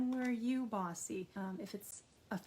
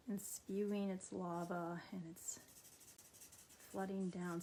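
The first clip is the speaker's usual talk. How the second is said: whispering; 5 dB quieter than usual. Acted. Describing a volcano erupting.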